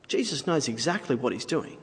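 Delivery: soft, understated statement; quiet assurance. Real, not acted. Preacher assuring listeners about Jesus, quiet and restrained. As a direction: say it softly, holding back the force. Line said softly, then repeated forcefully.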